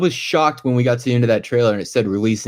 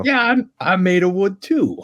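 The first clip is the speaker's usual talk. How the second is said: mock Pinocchio shout; 6 semitones higher than usual. Voicing Pinocchio in the bit.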